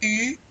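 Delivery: "U" as an ee said through rounded lips; French U. Shown as a demonstration. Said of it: "you say the E".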